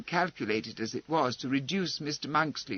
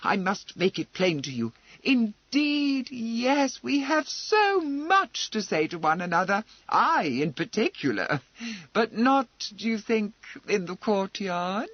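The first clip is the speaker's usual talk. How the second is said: raised, clipped fury held in check; furious gentleman, voice raised; 7 semitones higher, 3 dB louder than usual. A narrator's reading. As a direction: speak through anger, pitched up. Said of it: "he said furiously".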